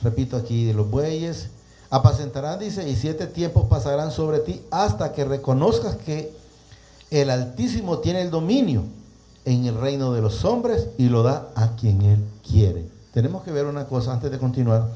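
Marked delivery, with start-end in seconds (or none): 1.9-12.9 measured, projected Bible reading; preacher reading scripture aloud. Acted. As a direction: read the verse out to a congregation. Reads scripture aloud to listeners.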